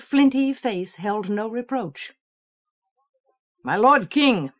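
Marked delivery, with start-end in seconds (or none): 3.6-4.5 firm, loud soldierly address; gruff soldier voice. Acted. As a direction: greet the king firmly. General greets the king.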